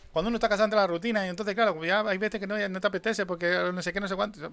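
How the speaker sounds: breakneck chatter. Retold or imitated. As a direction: rattle it off at full tilt, running clauses together. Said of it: "A toda hostia".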